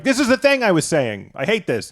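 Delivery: high-pitched whiny complaint; mock exasperation. Comedian complaining that the poop is still there, high mock exasperation. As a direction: pitch it up in put-on frustration. Acting out his toilet frustration.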